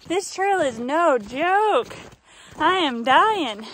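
slow, winded from the climb; out of breath. Real, not acted. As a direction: puff it out between breaths. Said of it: "Just taking a break to catch my breath".

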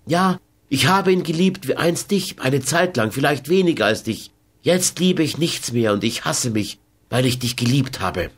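lightly voiced Carmen, starting high then settling; a touch of bitter self-loathing, understated; Carmen's bitter confession. Carmen admits loving Lukas, mildly bitter.

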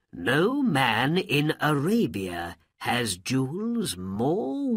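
slow, admiring royal voice; impressed Sultan. Acted. Sultan won over by the jewels, slow and admiring. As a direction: savor the wonder of the jewels.

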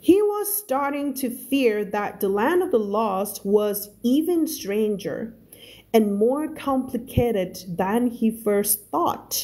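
slow, measured English reading; story read-aloud. Shown as a demonstration. Teacher reading a novel to learners, slow narration. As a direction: read it slowly, word by word, for learners.

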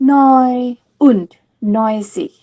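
neun und neunzig, neun stressed; teacher models neun und neunzig; German ninety-nine. Shown as a demonstration. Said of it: "เราก็จะพูดว่า".

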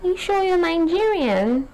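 high, teasing mock foreigner voice; high mock-surprised questioning; quoting surprised foreigners. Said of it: "they kept asking me".

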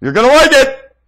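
high, loud taunting put-on voice; mock menacing voice. Taunting Mrs Clinton about the meeting, high and loud. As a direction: crow the threat in a shrill put-on voice.

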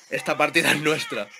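ordinary delivery

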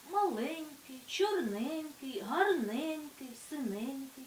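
маленький, чорненький, гарненький, синенький with drawn-out ЕНЬК; stress on suffix. Shown as a demonstration. Teacher demonstrating endearing suffix, ЕНЬ stressed in маленький to синенький. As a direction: slowly lean on ЕНЬ in each word, маленький to синенький. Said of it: "завжди є наголошеним".

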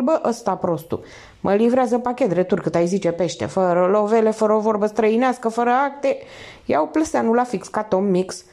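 a lightly voiced wisecracking thief; streetwise thief. Voiced thief Litruță, slangy.

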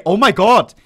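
loud, amazed compliment; impressed. Retold or imitated. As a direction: gush over someone's gloves. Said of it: "Nobody ever will say".

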